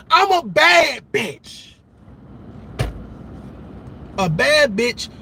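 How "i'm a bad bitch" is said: mock brag. Mocking quote, then repeated flat.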